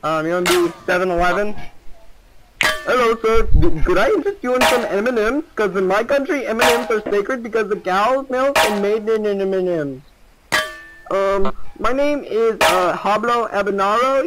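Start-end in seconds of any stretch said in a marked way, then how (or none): 2.8-14.2 hammed-up Indian clerk pitch; Indian accent. Offering M and M's to a stranger in mock Indian accent. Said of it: "I can also do an Indian accent".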